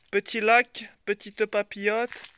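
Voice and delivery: put-on southern French accent, last word drawn out. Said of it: "je prends l'accent du sud".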